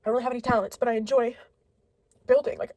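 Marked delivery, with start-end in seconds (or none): 2.6-2.7 laughing through the word nerdy. Real, not acted. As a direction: giggle at yourself while saying it. Laughs at herself.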